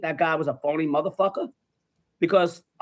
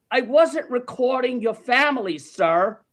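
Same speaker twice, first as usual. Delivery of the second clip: acted protest; 5 semitones higher, slower than usual. Acted protest to accusing man.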